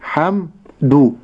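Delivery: حمد very slow, with the fatha given its full time; drawn-out demo. Shown as a demonstration. Sheikh showing the length of the fatha, slowly. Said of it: "أقول ح".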